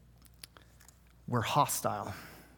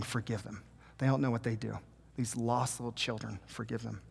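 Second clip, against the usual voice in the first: much softer, a hushed prayer for his killers; soft plea; 4 semitones lower, 8 dB quieter than usual. Retold or imitated. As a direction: ask forgiveness gently, almost under the breath. Jesus praying for his killers.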